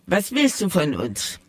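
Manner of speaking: annoyed. Acted. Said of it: "fragte sie verärgert".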